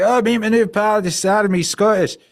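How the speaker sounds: high, loud mock introduction; imitated punk boyfriend. Boyfriend introduces his new pal to the girlfriend, high loud imitation. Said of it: "he's like".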